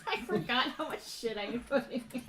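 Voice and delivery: talking through a real laugh; laughing at oneself. Real, not acted. Game master finding forgotten notes, laughing. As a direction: giggle as you say it. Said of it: "I'm just laughing at my own stuff".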